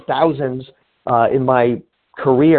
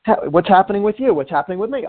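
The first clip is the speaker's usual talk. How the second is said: casual coffee opener; 5 semitones higher, faster than usual. Shown as a demonstration. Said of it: "You can say".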